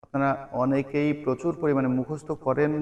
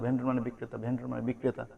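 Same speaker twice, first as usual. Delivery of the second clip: rote memorizing; 2 semitones lower, 8 dB quieter than usual. Shown as a demonstration. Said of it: "এটা যদি আমি বলি".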